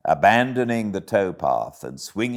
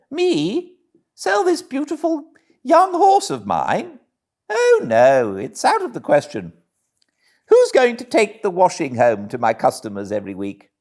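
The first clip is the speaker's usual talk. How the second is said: high, louder and quick blustering toad; indignant Toad; 12 semitones higher, 5 dB louder than usual. A narrator's reading. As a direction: puff up and protest the outrageous offer.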